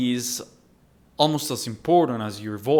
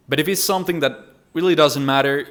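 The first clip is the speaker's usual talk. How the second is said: brisk, fast-paced aside; quick; 2 semitones higher, faster than usual. Shown as a demonstration. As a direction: toss it off quickly as unimportant. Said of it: "you can say it quickly".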